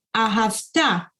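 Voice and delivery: ahavta said slowly, syllable by syllable. Shown as a demonstration. Teacher slowing down to pronounce the verb ahavta. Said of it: "que es y".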